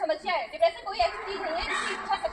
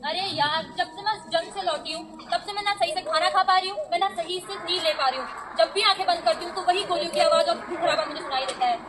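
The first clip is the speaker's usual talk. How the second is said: troubled soldier; 4 dB louder than usual. Acted. Traumatized soldier monologue.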